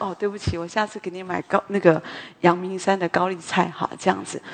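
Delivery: tender apology to calm him down; gentle apology. Retold or imitated. Wife apologising to her angry husband, soft and gentle.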